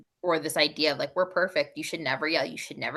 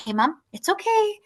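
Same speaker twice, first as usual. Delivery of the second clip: daughter's voice; 5 semitones higher than usual. Retold or imitated. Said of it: "She's like".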